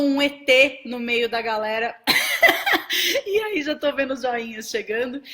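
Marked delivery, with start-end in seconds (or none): 2.0-3.2 loud, high peal of laughter; real high-pitched laughing fit; hearty laugh. Real, not acted. Joking about being an ET. 3.2-5.2 laughing. Real, not acted. Still laughing after her ET joke.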